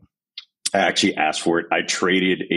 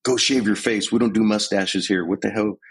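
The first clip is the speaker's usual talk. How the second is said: yelling drill sergeant; 4 semitones higher than usual. Retold or imitated. Drill sergeant chewing out a recruit, mock yelling. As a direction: bark orders like a drill sergeant riding a recruit. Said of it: "I was like".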